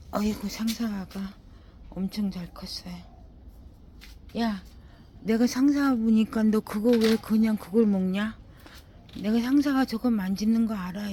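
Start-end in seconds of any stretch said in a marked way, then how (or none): 4.4-11.1 loud exasperated telling-off; scolding the dog. Real, not acted. Gardener yelling at her dog to stop chewing, loud scolding.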